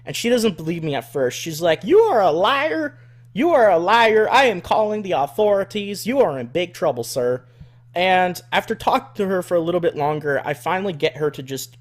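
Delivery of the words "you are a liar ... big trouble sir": high, loud accusing hick voice; imitating the redneck woman. Caller calling him a liar, high loud redneck voice. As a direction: shriek liar like a furious country lady. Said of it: "redneck woman".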